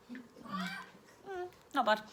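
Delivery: very high, soft creature voice; a pleased little owl; owl savouring. Acted. Owl voiced tasting food.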